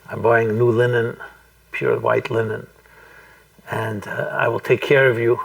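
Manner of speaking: imitating a meditation leader, long pauses between phrases; understated and slightly hushed, leave space after each promise; slow, measured. Voicing the mother speaking to her unborn child, slow and measured. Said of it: "he begins to speak very slowly".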